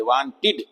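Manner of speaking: वांटेड pronounced WAAN-tid; short-i ending demo. Shown as a demonstration. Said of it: "ई की आवाज आनी चाहिए". (वांटेड के अंत में छोटी इ, "टिड")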